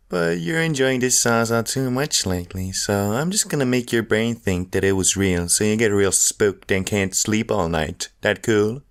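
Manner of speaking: sly taunting voice. Acted. Weed voice taunting smoker.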